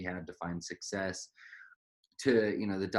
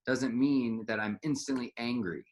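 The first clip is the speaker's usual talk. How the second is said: heated retort; 4 semitones higher, 3 dB louder than usual. Retold or imitated. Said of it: "And you're like".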